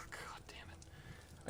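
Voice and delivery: slow, whispered curse under the breath; defeated whisper. Real, not acted. Gamer cursing his bad luck, slow whisper. Quiet defeat after dying.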